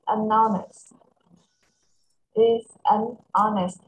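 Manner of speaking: "unhonest" as "an honest", the H dropped; no H sound in "unhonest"; silent H. Shown as a demonstration. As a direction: model "unhonest" with a vowel after "an", no H. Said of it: "Âm H này là âm câm".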